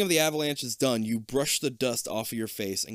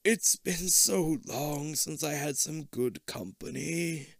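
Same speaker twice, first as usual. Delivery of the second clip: put-on very old faint voice; 3 semitones higher, slower than usual. Old man continues friendly.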